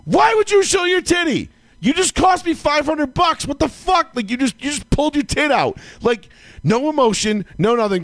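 yelling at wife. Retold or imitated. Yelling at his wife for costing him five hundred bucks, furious. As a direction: scream the betrayal at her. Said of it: "I was yelling at her".

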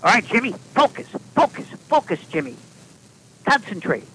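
high, loud coaching yell; yelling to the kid. Retold or imitated. Coach yelling at little Jimmy at bat, loud. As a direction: shout it across the field at the batter. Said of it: "yelling to the kid".

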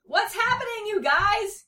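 high, loud alarmed cry; loud high-pitched wail of words. A narrator's reading. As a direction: cry out in a panic to the others. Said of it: "cried Chucky".

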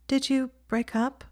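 gentle. A narrator's reading. Ginny asking Hermione about Draco, softly and gently. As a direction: ask it softly, careful of her feelings. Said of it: "she said gently".

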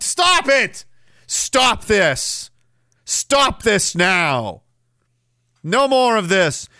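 high burst, then slow stern commands; mock outrage. Host halting the silly slang request, mock outrage. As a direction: play at calling a halt, drawn out. Mock outburst at being made to perform.

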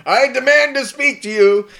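high, loud pompous voice; mock demand. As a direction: puff up and demand it. Imitating Richard Harris demand.

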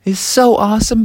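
put-on high-pitched delighted kid; Froggy. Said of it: "He was saying".

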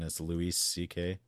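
name said with a put-on Hispanic accent; lightly joking Hispanic pronunciation. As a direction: turn Louis into a Hispanic name. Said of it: "like, a Hispanic Louis C K".

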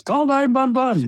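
put-on shrill high German-accented shout, "one" said as "vun"; German accent yell. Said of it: "and with a German accent".

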